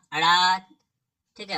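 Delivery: अड़ा drawn out very slowly, syllable by syllable; teacher sounding out अड़ा slowly; slow demo of अड़ा. Shown as a demonstration. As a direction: stretch अड़ा slowly for the class. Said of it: "तो जैसे अंग".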